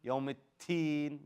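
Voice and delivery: "التين" with a sharp t in place of d. Shown as a demonstration. Teacher shows another common mistake, T for D. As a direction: say "يوم التين" with t replacing the d. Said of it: "It's another common mistake".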